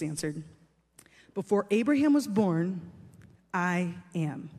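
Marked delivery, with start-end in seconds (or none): 1.3-4.5 solemn declaration. Acted. Jesus's weighty answer, quoted solemnly.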